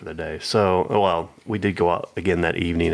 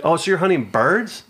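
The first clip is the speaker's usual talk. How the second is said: high, fussy older lady, hammed-up; mock lady voice; 7 semitones higher than usual. Imitating the confused lady asking about hunters, high and fussy. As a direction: lift the pitch and play her flustered. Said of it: "And she's like".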